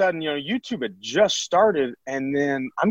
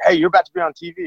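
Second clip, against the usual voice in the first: much higher, fast, excited call; excited teammates; 5 dB louder, faster than usual. Retold or imitated. Teammates running into the batting cage, excited and fast. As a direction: blurt it out like news just broke.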